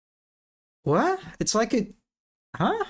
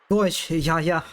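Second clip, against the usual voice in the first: mock German accent; 2 semitones higher than usual. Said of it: "why did I say that in such a way".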